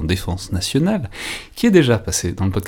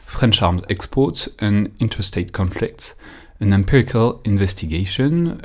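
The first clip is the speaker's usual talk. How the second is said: English title read with a strong French accent. Real, not acted. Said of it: "de mon accent anglais".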